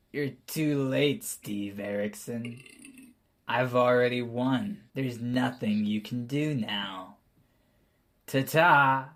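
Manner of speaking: a hint of a gruff villain, taunting; lightly voiced gruff gloating farewell. Villain taunts Steve Erickson through the portal, lightly gruff. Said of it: "in a gruff voice".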